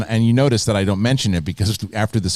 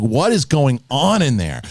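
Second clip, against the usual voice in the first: retold bafflement; 4 semitones higher than usual. Wife's baffled question retold.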